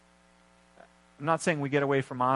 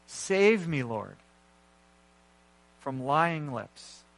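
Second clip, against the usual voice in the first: slow prayerful reading. Real, not acted. Pastor closing by praying the psalm with the congregation, slow reading. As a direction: read the psalm slowly, with long pauses. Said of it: "I'll read it slowly".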